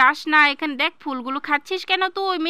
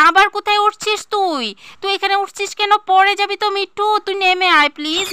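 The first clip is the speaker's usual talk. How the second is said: worried alarm; 5 semitones higher than usual. Acted. Mother alarmed, child climbing higher.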